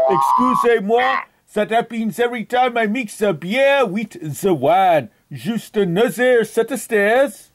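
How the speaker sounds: hammed-up French accent on a prank call; outrageous fake French accent. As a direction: play a Frenchman with a thick, put-on French accent. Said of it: "That is why I have this outrageous accent".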